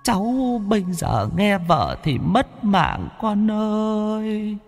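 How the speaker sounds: high, soft, slow wailing ghost voice; reproachful ghostly echo. A narrator's reading. Dead grandmother's ghost reproaches her grandson, slow and wailing. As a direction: lament it like a spirit from far away. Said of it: "âm thanh vang vọng như từ cõi xa xăm vọng về, giọng trách móc".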